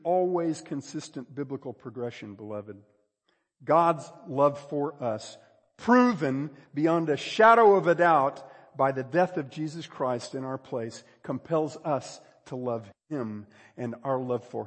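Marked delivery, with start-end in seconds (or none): 3.7-11.0 weighty, punched preaching delivery; emphatic preaching. Real, not acted. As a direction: preach it with measured force. Preaches with force.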